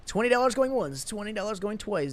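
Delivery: auction call, going once going twice; auctioneer. Pretend. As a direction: rattle it off like an auctioneer. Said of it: "Feel like an auctioneer here".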